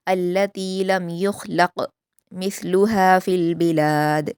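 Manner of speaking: slow, melodic Quranic recitation; measured Quran recitation; tajweed recitation. Shown as a demonstration. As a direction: recite it slowly and carefully as a model for students. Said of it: "ख़ा और क़ाफ़ दोनों को पुर पढ़ेंगे".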